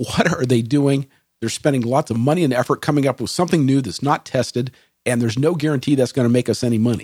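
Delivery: normal talking voice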